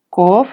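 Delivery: koob said with a rising pitch. Shown as a demonstration. Teacher sounding the word out again, rising. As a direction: let koob slide up. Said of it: "quiero saber qué tono tiene".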